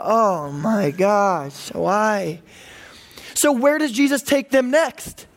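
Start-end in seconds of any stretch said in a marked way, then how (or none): 0.0-2.4 very slow, drawn-out weary groan of disbelief; exasperated facepalm. Retold or imitated. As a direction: sigh it out like you can't believe them. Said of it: "Face palm Jesus".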